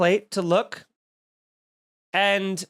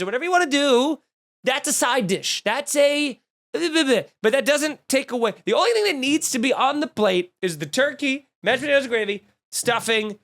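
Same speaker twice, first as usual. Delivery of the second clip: heated rant; 5 semitones higher than usual. Real, not acted. Food rant.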